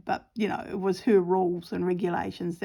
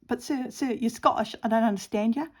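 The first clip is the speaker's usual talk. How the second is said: put-on belligerent teenager; 3 semitones higher than usual. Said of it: "and she's like".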